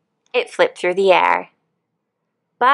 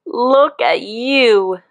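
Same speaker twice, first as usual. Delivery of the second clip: mild proud shout; 5 semitones higher, much slower than usual. Acted. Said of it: "shouted the wise old click beetle".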